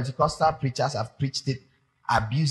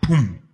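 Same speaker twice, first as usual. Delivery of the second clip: mock thunder boom; 3 semitones lower, 5 dB louder than usual. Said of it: "a clap of thunder".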